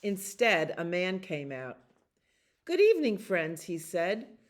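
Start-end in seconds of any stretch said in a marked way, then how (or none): 2.7-3.6 big bright announcer greeting. A narrator's reading. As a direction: boom it out to the crowd. Announcer greets park crowd.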